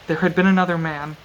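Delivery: measured audiobook-style reading; story narration. A narrator's reading. Reading a brutal sword fight from the novel aloud, measured narration. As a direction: read it out evenly, with deliberate pauses.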